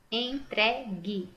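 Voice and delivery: "Entregue" slow in three syllables, U silent; "Entregue" slowly enunciated, hard final gi. Shown as a demonstration. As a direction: split "Entregue" as en, tre, gi. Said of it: "Também não pronunciei o U".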